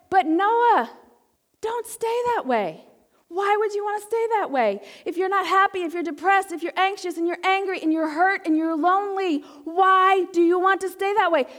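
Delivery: almost in tears, begging them to change; pleading challenge. Acted. Preacher voicing blunt post, crying.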